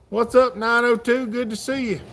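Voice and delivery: cheerful livestream shout-out to a viewer; excited greeting. Real, not acted. Greeting viewer in live chat.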